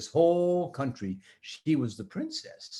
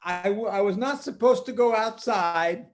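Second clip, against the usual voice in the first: put-on little girl voice; 4 semitones higher than usual. Tina voiced high.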